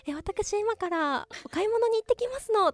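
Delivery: put-on high, prim rich young lady voice; haughty rich girl japanese. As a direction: play a pampered heiress. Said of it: "お嬢様言葉".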